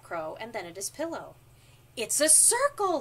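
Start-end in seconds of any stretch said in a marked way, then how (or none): 2.0-3.0 loud, higher burst of discovery; joyful cry of discovery; delighted shout. A narrator's reading. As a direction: shout it out, thrilled. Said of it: "he shouted, dancing around".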